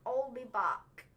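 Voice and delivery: slow attempt at an Austrian accent; a lightly done, drawn-out action-hero line; Arnold Schwarzenegger. Kid trying Arnie on request, slow half-sure impression. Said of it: "he wants you to do the Ar".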